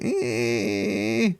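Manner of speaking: long, high drawn-out "ehhh" whine; mock sleep-deprived whine, held long; groggy whine.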